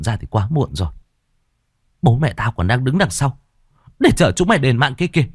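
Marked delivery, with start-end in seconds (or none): 2.0-5.3 sneering. Acted. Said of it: "Tôi cười gằn".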